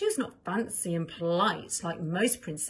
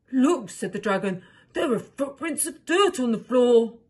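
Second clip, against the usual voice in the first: excited call; 4 semitones higher, 9 dB louder than usual. Acted. Dragon spots footprints.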